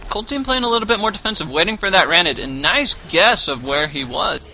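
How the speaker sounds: chewing while talking; mouth full. Real, not acted. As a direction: talk through bites of apple. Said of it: "as I'm chewing on some apple slices".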